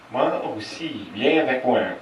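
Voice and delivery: soft, lightly camp invitation. Retold or imitated. Big macho manager inviting the brother-in-law, soft camp coo. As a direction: coo it softly, a hint of a flirt. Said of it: "in the gayest voice they ever heard".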